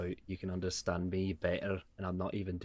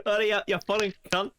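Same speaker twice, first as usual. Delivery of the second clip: mock yell; 11 semitones higher, 5 dB louder, faster than usual. Yelling at late friend.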